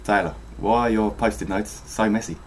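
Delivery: lightly attempted South African accent. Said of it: "Is that South African?".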